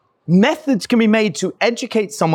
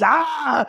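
monster roar; 8 semitones higher than usual. Retold or imitated. Leatherface jumps at son.

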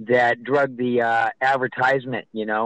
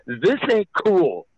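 higher, slow, drawn-out scolding; disapproving official; 6 semitones higher, slower than usual. Retold or imitated.

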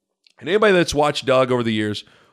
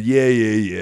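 annoyed dismissal; 3 semitones lower than usual. Retold or imitated. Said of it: "kind of annoyed".

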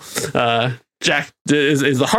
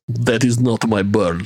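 slow, lower, deadpan denial; Ivan Vanko; 5 semitones lower than usual. Retold or imitated. Vanko rejecting the bird, slow and low. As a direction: flatly refuse the gift. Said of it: "takes one look and says".

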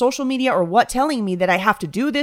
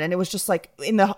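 ordinary talk, nothing marked

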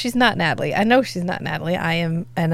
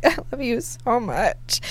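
gushing; 3 semitones higher, 4 dB quieter, slower than usual. Retold or imitated. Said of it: "It's like".

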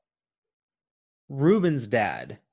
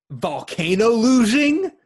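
high, slow, on the verge of laughing; trying not to laugh; 9 semitones higher, 6 dB louder, slower than usual. Real, not acted. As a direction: squeeze it out through laughter. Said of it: "Sorry, I'm losing it".

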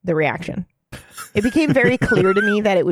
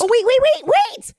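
sudden realization. Real, not acted. Remembers a forgotten sign-off.

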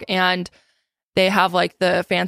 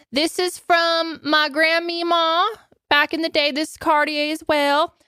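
much higher and slower, sing-song; high, slow sorority girl parody; 8 semitones higher than usual. Retold or imitated. Host parodies a rush girl bragging about her jewelry, higher and slower. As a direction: drag it out like a proud rush girl. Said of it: "make fun of these people".

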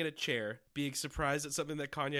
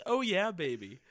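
Austin Powers quote; 4 semitones higher, 5 dB louder than usual. Pretend. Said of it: "That's all I know".

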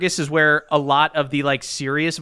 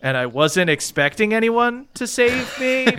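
sincere; 2 semitones higher than usual. Acted. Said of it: "but you mean it".

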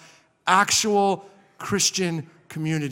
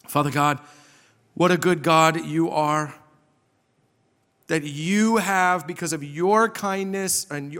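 earnest prayer building through a list, then softening; public prayer; 3 semitones higher than usual. Real, not acted. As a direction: address God with measured, heartfelt emphasis. Leads a prayer.

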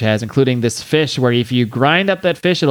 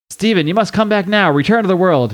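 higher-pitched urgent appeal; urgent pleading; 6 semitones higher than usual. Acted. She calls Stephen back from netherworld, urgent pleading. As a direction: call him back with rising urgency.

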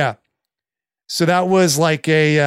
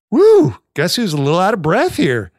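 mock winded woo; 4 semitones higher, 4 dB louder than usual. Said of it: "I'd be like".

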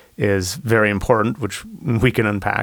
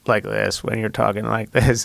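vocal fry. Shown as a demonstration. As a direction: let the voice crackle into vocal fry. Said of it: "I was getting all vocal fry".

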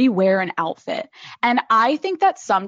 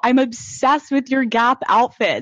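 laughing fit; 2 semitones higher, slower than usual. Real, not acted. Laughing with friend about outfits.

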